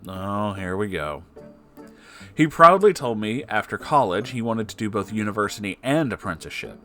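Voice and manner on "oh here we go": plain reading voice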